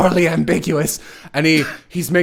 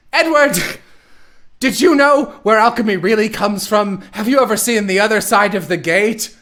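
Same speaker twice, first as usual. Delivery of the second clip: mock villain; 4 semitones higher than usual. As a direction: ham up a silly villainess. Villain Dante lecturing Edward.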